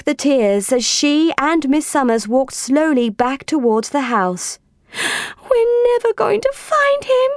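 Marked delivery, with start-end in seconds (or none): 5.5-7.3 put-on high, sighing little-girl voice of dismay. A narrator's reading. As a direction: sigh it out high, close to giving up. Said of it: "she sighed".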